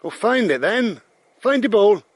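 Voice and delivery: loud, high urging; calling the dog. Real, not acted. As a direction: shout encouragement to the dog.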